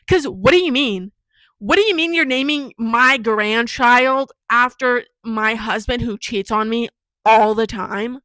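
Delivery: mildly hammed-up outrage as the mother; mad mom. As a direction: demand an explanation, loud at first and drawn out. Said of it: "I would have been so mad".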